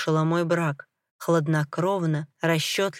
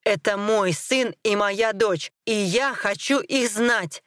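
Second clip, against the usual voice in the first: slow, firm insistence, pitch lifted; emphatic demand; 3 semitones higher, slower than usual. Acted. Father claims his son and daughter, slowly demanding. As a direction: weigh each word slowly and insistently. Husband bangs table, demands children.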